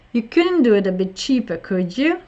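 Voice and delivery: couldn't and cheaper stressed, could you rising; model question. Shown as a demonstration. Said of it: "So you can also say it like".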